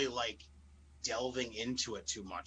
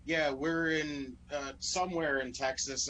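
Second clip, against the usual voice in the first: Ronda. Retold or imitated. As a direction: stall mid-phrase as if groping for the word. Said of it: "she stumbles over her own words".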